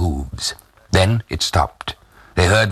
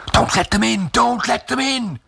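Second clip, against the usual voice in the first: high-pitched, frantic cry; panicked plea. A narrator's reading. Women plead as soldiers knock, panicked high cry. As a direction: beg in rising panic.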